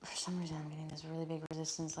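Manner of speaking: hushed, secretive whisper; whispered aside. Real, not acted. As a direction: drop to a whisper as if sharing a secret. Tarot reader confides a sense.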